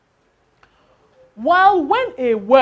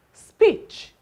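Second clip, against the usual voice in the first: "Speech" said high and loud as a model word; 11 semitones higher, 3 dB louder than usual. Shown as a demonstration. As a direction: hold up "Speech" as the example word. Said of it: "we have the word speech".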